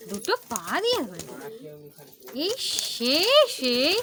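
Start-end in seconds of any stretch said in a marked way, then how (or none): 2.4-4.0 high, loud sudden shout; sharp shout. Real, not acted. Owner shouting at the bird biting the stick. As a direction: snap out one loud word.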